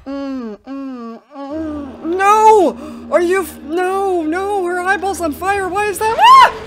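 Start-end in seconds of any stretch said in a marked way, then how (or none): 2.2-6.2 higher, loud panicked cries; frightened yell. Real, not acted. Player attacked by the fiery-eyed ghost, panicked yell. 6.2-6.6 piercing high shriek; jump-scare scream. Real, not acted. Player jolted by the ghost, shrieking.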